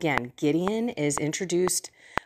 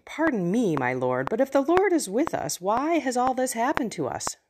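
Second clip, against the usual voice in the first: higher, questioning complaint after a hesitant start; Gideon's protesting reply; 5 semitones higher than usual. Acted. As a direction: politely push back, then plead for an answer. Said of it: "And then Gideon replies".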